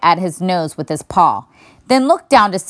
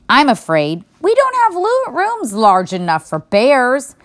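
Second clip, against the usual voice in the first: put-on little girl voice; 6 semitones higher than usual. A narrator's reading. Mona explains to bear.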